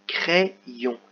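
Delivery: crayon said as kré-yon, the y split across both syllables; model reading. Shown as a demonstration. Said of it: "on dit pas".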